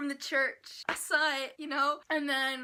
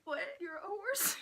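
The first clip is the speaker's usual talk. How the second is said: puzzled; 4 semitones higher than usual. Retold or imitated. Voicing confused Brian.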